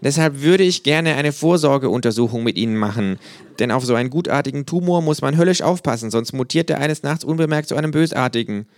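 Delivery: high, dry, know-it-all kangaroo. A narrator's reading. Kangaroo lecturing a flag-draped fan, high and dry. Känguru voice, held.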